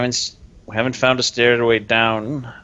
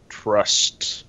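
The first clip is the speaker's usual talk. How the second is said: whispered; 3 dB quieter than usual. Acted. Character writes word, whispered.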